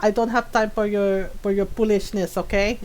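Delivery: put-on no-nonsense mom with a Filipino accent; imitated Filipino mom. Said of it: "My mom's always like".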